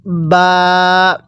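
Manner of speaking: বা pressed from between both lips, vowel held; lip-made বা. Shown as a demonstration. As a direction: close the lips, open into a long বা. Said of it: "এই বাটা দুই ঠোঁটের মাঝখান থেকে উচ্চারণ হবে". (দুই ঠোঁট থেকে টেনে বা)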